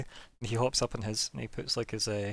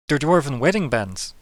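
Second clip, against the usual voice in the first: slow reveal; 3 semitones higher, 6 dB louder than usual. Acted. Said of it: "he goes".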